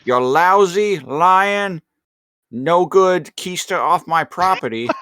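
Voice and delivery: high, nasal-free tough-guy gangster growl; gangster movie quote. Retold or imitated. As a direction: bark it like an old movie gangster. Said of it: "that Home Alone quote".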